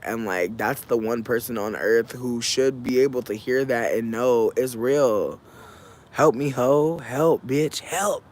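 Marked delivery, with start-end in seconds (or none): 6.1-8.2 half-joking call for help, rising on the last word; drawn-up, playful cry of "help"; mock plea. Daughter begging her mother for support, mock plea.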